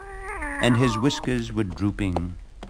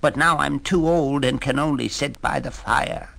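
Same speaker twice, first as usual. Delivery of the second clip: cat voice; 6 semitones higher than usual. Acted. Cat's lament.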